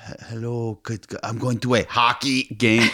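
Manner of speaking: halting, put-on French accent; mock French accent. Husband imitating a French person speaking English, mock French accent. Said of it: "Like a French person wouldn't be like".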